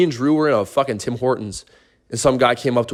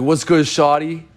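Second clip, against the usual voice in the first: mock smooth pickup line; 4 semitones higher, 3 dB louder, slower than usual. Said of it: "he's like".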